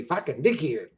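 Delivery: lightly imitated Aussie insult; a hint of an Australian accent. Streamer fondly quoting how Australians say it, light Australian accent. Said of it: "the way they say".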